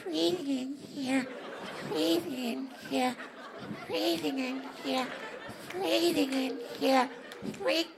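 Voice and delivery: a hint of whiny nag; whiny woman voice. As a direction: nag softly, over and over. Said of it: "You know why I do that voice?".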